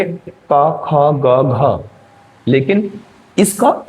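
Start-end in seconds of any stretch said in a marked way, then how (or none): 0.0-1.8 clipped demo syllables, each cut short; का खा गा घा spoken short and separate; short consonant sounds. Shown as a demonstration. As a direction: say each consonant briefly, no drawn-out vowel. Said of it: "हम कैसे उच्चारित करेंगे?".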